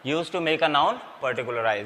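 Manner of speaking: very slow restated rule; deliberate, drawn-out recap; slow dictation. Shown as a demonstration. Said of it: "repeating the definition".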